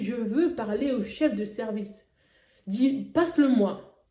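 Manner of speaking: retold insistent demand, slowly spelled out. Daughter pressing her sister for the hospital chief, insistent. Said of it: "J'ai insisté".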